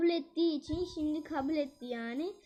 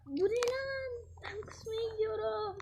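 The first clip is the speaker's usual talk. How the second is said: disgust; 7 semitones higher than usual. Real, not acted. Disgusted at the food.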